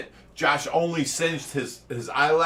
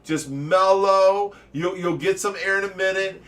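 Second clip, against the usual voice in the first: reassuring; 4 semitones higher than usual. Retold or imitated. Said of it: "I'm like".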